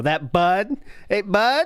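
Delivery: 'bud' with upward inflection. Showing a sound Americans supposedly can't make, 'bud' with upward inflection. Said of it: "That upward inflection, but yet still hitting the D".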